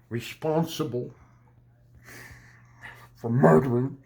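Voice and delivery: lightly voiced Brooklyn gang boss; menacing threat, lightly voiced, rising at the end; Daniel Day-Lewis impression. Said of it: "that was my favorite impression of, uh, yeah, Daniel Day-Lewis".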